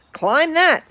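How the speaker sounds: "Climb that" barked high and loud by the bug, falling on "that"; bossy command. Acted. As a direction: order him up the mountain, high and sharp. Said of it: "said the bug".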